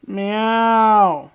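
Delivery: loud drawn-out meow; cat meow. Pretend. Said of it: "I'm a cat".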